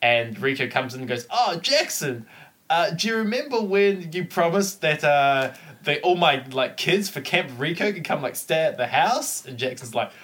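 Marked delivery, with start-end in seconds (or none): 1.3-9.5 lightly voiced wheedling rival, higher pitched; scheming rival. Rival reminds Jackson of a promise, lightly acted, higher voice. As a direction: put on a hint of a sly schemer.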